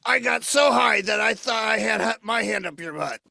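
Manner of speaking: shouted crude punchline; puppet shout. Acted. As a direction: puppet yells the gross joke.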